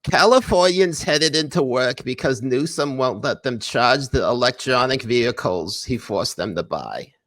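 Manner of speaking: a lightly put-on nasal dork Jewish accent, like Mort Goldman; mock Jewish accent. Podcaster reads news in a mock Jewish accent. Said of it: "when you do that accent".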